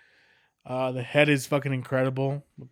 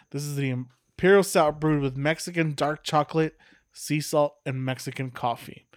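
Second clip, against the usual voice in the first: ad copy read aloud; label read. Acted. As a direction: read it like a beer ad. Reads the brewery's label text.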